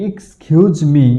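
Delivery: slow, clear "এক্সকিউজ মি" pointing at the board; careful model. Shown as a demonstration. Teacher reads the board phrase slowly to the class. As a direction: read "এক্সকিউজ মি" slowly as "kskiuz mi". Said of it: "এখানে".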